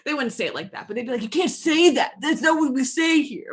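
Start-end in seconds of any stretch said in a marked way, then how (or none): 1.2-3.5 mock scolding. Voices cousins correcting their word.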